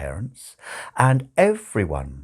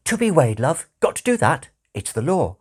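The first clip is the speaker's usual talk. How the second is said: lightly voiced nurse, pitched higher; 6 semitones higher than usual. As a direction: reassure the new mother, a touch higher. Nurse reassuring mother while swapping babies.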